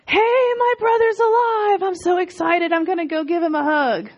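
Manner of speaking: a sarcastic, too-sweet brother; mock excited. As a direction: put on fake sibling delight. Ironic reply to "how did he react.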